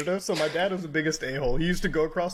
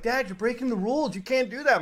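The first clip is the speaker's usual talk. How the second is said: put-on scared kid voice; 5 semitones higher than usual. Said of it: "I'm like / freaked out as a kid".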